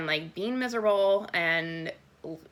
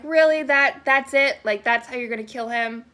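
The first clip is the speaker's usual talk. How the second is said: incredulous; 4 semitones higher, 6 dB louder than usual. Retold or imitated. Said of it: "I'm like".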